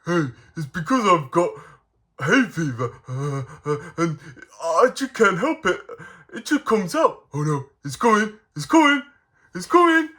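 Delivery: Sneezy. Acted. Sneezy warns that a sneeze is coming, mock panic. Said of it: "always makes me laugh when he sneezes".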